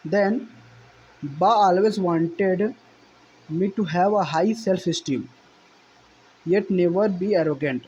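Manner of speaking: slow, deliberate reading aloud of the English passage; slow text reading. Shown as a demonstration. Teacher reading the textbook passage to students, slow and deliberate. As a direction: read each phrase out slowly for the class.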